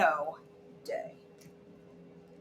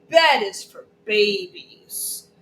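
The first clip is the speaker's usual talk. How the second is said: put-on defiant toddler; 4 dB louder, slower than usual. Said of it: "and said".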